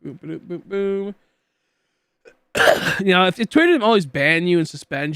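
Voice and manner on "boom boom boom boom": idle booming. Real, not acted. Idle vocal noises in a lull.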